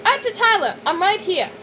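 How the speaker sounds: put-on light South African accent, boy; a hint of a South African accent. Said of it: "didn't do Casper's accent right".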